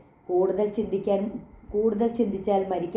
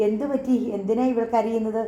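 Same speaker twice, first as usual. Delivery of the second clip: alarmed asking. Acted. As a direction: ask in sudden alarm. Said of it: "അവർ പരിഭ്രമത്തോടെ ചോദിച്ചു". (പരിഭ്രമത്തോടെ ഉയർന്ന സ്വരത്തിൽ)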